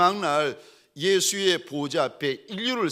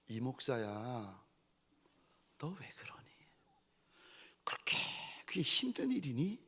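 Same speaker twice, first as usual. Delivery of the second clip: much softer, tender rebuke; Lord's gentle rebuke; 6 dB quieter than usual. Retold or imitated. The Lord softly rebuking his pastor. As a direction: chide him softly like a grieved father. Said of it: "마치 주님이 저한테 그러시는 것 같았어요".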